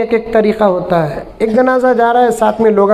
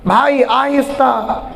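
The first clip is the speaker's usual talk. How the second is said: slow, lightly voiced careful pleading; a hint of the anxious widower; fussy mourner, slightly softer; 2 semitones higher than usual. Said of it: "आखिर तू कौन".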